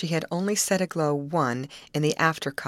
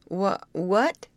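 stammered, higher-pitched question; startled gasp; 4 semitones higher than usual. A narrator's reading. Timid youth answering strange girls, startled gasp. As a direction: falter on the word, a touch afraid. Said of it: "gasped the other".

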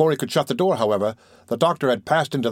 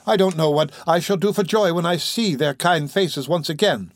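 lightly voiced excited boy, higher; joyful Oliver; 6 semitones higher than usual. Oliver longs to see kind faces again, joyfully. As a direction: brim over at the thought.

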